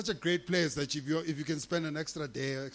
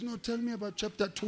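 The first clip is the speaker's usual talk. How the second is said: lightly mimicked chummy boss, pitched up; Jacob Zuma; 4 semitones higher than usual. Politician quizzing his staffer on the report, chummy imitation. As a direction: coax it out, higher than usual. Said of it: "he becomes very personal with you".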